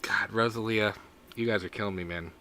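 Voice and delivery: whispered, choked up. Real, not acted. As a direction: whisper it, near tears. Emotional, choked up.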